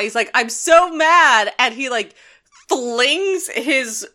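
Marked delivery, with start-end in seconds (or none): 0.3-1.5 higher, louder, slow mock rage; a hammed-up angry bellow, slow; mock scream at sky. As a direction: howl it upward like an old man yelling at clouds. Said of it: "screams at the sky".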